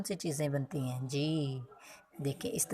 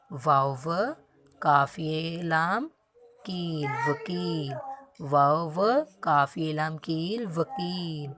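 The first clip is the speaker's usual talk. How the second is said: slow spelling-out; slower than usual. Shown as a demonstration. Teacher sounding out a word slowly for the class. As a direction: sound out each letter slowly and clearly. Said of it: "हमने इसको ये ही बोलना है".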